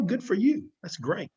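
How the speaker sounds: high, teasing "good for you"; a needling pat on the back; sarcastic praise. Acted.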